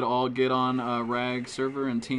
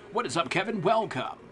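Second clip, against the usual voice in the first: excited greeting; 6 semitones higher than usual. Real, not acted. Greeting a stream viewer by name.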